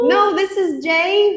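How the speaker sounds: firm correction. Real, not acted. Teacher correcting repeated wrong answer.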